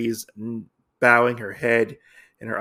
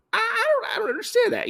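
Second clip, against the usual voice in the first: mock confusion; much faster than usual. Exaggerated confused Usagi voice.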